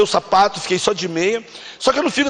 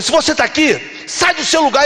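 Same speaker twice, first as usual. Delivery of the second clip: altar call; 5 semitones higher than usual. Retold or imitated. Re-enacts call to come forward.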